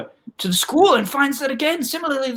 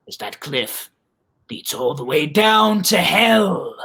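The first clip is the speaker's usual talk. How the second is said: put-on grizzled old man; 3 semitones lower than usual. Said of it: "And the old man says".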